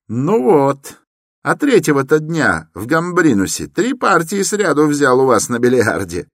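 put-on chatty young man reminding Koch; a young man talking up fast and high; young man's voice. Young visitor explains to Koch.

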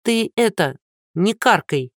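nervous shout. Acted. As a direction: cut off his bad omen. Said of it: "нервно крикнула Лиза".

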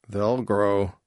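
husky new father's reassurance; a touch husky. A narrator's reading. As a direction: answer huskily, without raising the pitch. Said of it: "Silmian's voice was husky".

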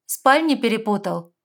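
menacing challenge to the intruder; stern question. A narrator's reading. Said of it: "грозно спросила".

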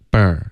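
啵儿 with dropped jaw and open er; open, relaxed er. Shown as a demonstration. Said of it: "嘴巴要张开".

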